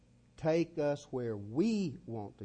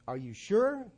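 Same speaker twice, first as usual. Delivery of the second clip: showman challenge; 10 semitones higher, 10 dB louder than usual. Retold or imitated.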